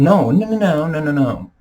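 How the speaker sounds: high, loud run of no, no, no; emphatic no. Real, not acted. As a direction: shut the idea down hard. Cutting off his own quote.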